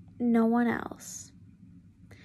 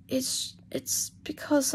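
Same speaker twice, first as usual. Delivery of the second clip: whispered confession; 2 semitones higher, 4 dB quieter, slower than usual. Acted. Draco confessing secret.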